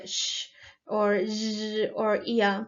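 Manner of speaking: SH and Z held long, then YA, as isolated sounds; palatal sounds. Shown as a demonstration. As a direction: slowly sound out SH, Z as a zh buzz, YA. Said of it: "next is the palatal sound".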